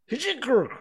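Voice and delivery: high, loud squawked exclamation; sudden exclamation. A narrator's reading. Griffin breaking a long silence, sudden exclamation. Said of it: "an occasional exclamation of".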